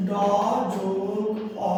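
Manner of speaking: "ড যোগ অ" sound by sound, each held; sounding out letters. Shown as a demonstration. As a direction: slowly split "ড" from a drawn-out "অ". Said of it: "এটা হচ্ছে বর্ণ বিশ্লেষণ".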